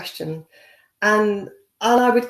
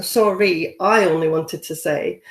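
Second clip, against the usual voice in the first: lower, pointed mock apology; passive-aggressive apology; 4 semitones lower, 4 dB louder than usual. Imitating people who misuse sorry, passive-aggressive tone. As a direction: act a mildly passive-aggressive sorry, pitched down. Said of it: "use it in a passive aggressive way".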